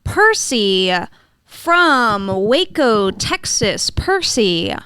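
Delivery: slow, drawn-out show-host intro; radio host announcing. Acted. Host introducing the next caller, in a slow announcer style. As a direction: stretch out the caller's name and town, slowly.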